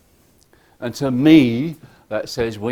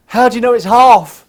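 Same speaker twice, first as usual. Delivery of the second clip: challenging question; 12 semitones higher, 14 dB louder than usual. Retold or imitated. Speaker retells his challenge.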